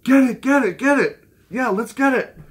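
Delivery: hammed-up "get it" chant of an eager friend; excited wife. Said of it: "she goes".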